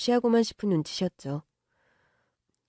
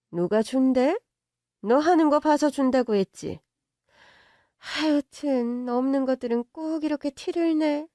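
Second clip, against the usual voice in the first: higher, scornful mockery; contemptuous rich mother; 3 semitones higher than usual. Mother mocking the girlfriend as poor, contemptuous. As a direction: sneer at her fake brands. Mother mocks her clothes.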